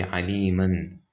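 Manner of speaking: "aliman" with the n sounded at the end; wrong stop form. Shown as a demonstration. Tajweed teacher showing a forbidden stop, wrong form. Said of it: "we don't say".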